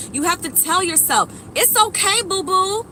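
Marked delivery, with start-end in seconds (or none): 1.5-2.8 higher, cooing "boo-boo"; mock soothing baby talk. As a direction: coo at yourself like a toddler.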